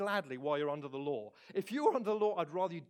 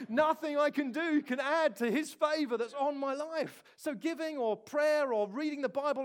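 emphatic preaching; 7 semitones higher, 6 dB louder than usual. Real, not acted. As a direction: preach it out with full force.

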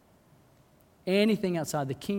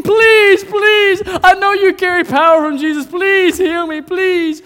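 high, shouted, insistent plea; acted frantic cry for healing; desperate begging; 12 semitones higher, 14 dB louder, slower than usual. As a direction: beg as if thrown at their feet. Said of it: "they throw themselves in front".

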